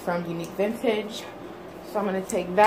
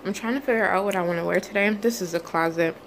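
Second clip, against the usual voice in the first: talking with gum in mouth; chewing gum. Real, not acted. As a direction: chew gum while speaking. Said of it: "have gum in my mouth".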